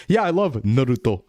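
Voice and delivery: Naruto said with crisp Japanese vowels; Japanese pronunciation. Shown as a demonstration. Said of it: "imagine if I was talking".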